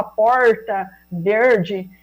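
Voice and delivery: "porta" and "verde" with a strong retroflex interior R; strong caipira R. Shown as a demonstration. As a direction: curl the R in "porta" and "verde" the way they say it in the São Paulo interior. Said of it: "seu R é muito forçado".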